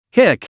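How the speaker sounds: high little sobbing hiccup; tearful hiccup. A narrator's reading. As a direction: hiccup mid-cry. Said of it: "Huang Zihan hiccuped".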